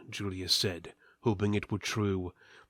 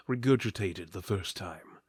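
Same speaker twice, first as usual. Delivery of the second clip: ordinary delivery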